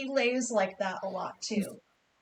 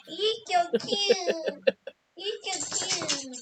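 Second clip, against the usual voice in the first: high, slow gush through laughter; laughing coo; 6 semitones higher, much slower than usual. Real, not acted. Owner laughing and cooing over her dog's cute hair.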